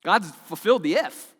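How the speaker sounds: loud, high, insistent preaching; fervent preaching. Acted. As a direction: drive the point home loudly. Preaching peak about the promise.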